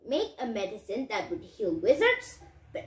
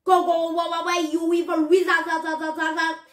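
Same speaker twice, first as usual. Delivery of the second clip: loud chanted dragon growl syllables; lightly voiced dragon growl, loud at first; mock growl; 3 semitones higher, 4 dB louder, faster than usual. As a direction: grumble it like a three-headed dragon. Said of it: "Gorinich growled".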